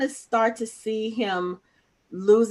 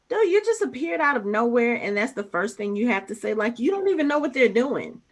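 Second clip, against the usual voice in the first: raised-pitch incredulous retort; exasperated reaction; 3 semitones higher than usual. Retold or imitated. Host reacting to the character's outburst, exasperated. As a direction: call him out, mildly exasperated.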